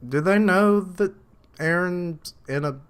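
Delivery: can't believe what he's seeing; incredulous. Real, not acted. Watching the episode, stunned that Eren is in a prison cell, asks in high disbelief.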